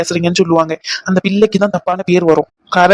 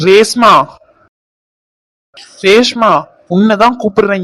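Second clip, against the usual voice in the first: loud call, pitch up; man summoning Reshma loudly; 4 dB louder than usual. Acted. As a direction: call her from across the house. Calling out across the house.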